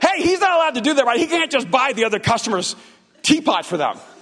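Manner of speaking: acted, high-pitched, carrying yell. Retelling an employee calling past him to another employee: retelling a yell. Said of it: "he yells to another employee".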